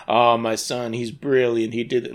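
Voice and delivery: loud, gushing parental pride; mock praising. Parent in the movie bragging about their son, mock praising. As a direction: boast about your boy, hammed up. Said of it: "being praising and being like".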